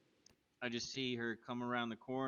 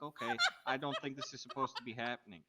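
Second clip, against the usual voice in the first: laughing through the words; half-laughing, can't believe it; laughing disbelief; 3 semitones higher, 4 dB louder than usual. Retold or imitated. Marvelling at endless pockets, laughing through it.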